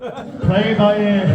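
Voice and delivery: slow loud \"Play it by ear\" stretched; slow repeated punchline. Shown as a demonstration. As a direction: savour the punchline slowly. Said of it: "It's an actual joke".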